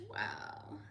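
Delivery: normal talking voice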